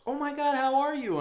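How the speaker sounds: high, bubbly hairdresser greeting; chirpy hairdresser. Retold or imitated. Hairdresser greeting returning client, high and gushing. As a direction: gush like an overfriendly stylist. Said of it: "she goes".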